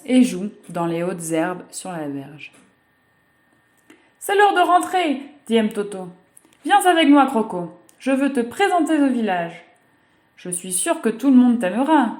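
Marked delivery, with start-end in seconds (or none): 4.2-12.1 put-on high, eager little girl's voice; a happy child inviting her new friend. Girl inviting Croco to the village, high and eager.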